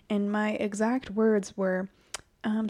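usual speaking voice

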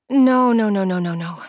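sharp rising no in disbelief; shocked denial. Acted. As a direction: blurt it out in shock.

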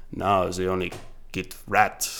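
slow, lightly voiced movie villain; a slow, slightly accented villain imitation; evil villain accent. Retelling a James Bond villain's speech, mock evil accent. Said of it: "in, like, a cool accent too".

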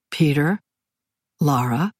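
even, composed address; calm. A narrator's reading. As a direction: keep it level and unhurried. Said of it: "he said calmly".

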